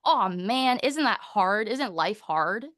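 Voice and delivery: mock-dramatic sympathy; sympathetic teacher. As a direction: share the child's pain warmly. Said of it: "It was like".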